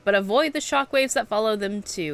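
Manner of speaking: lightly voiced gruff old trainer; a hint of a weathered old instructor; old veteran NPC voice. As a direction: read it like a seasoned mentor sizing up a recruit. Reads game NPC dialogue aloud.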